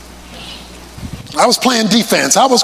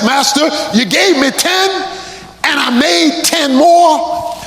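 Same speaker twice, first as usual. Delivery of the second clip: excited servant; 4 semitones higher than usual. Acted. Servant reporting to master.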